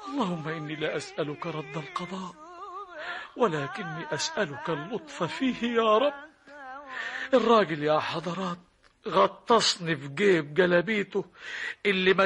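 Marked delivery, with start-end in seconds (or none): 0.1-6.3 tearful prayer. Acted. Coin prays in distress.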